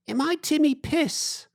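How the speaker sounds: very high, slow mock holler; imitated baffled call-back. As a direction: call back a misheard question. Boatman mishears the shouted question.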